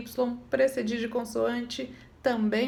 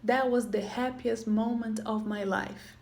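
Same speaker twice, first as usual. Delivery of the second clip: slow model sentence; slower than usual. Shown as a demonstration. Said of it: "Por exemplo".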